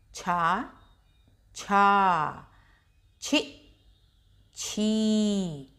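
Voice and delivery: slow syllable-by-syllable recitation; teacher reciting each syllable with a pause; barakhadi drill. Shown as a demonstration. Teacher drilling children on चा row, recited slowly. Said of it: "अब है छा।".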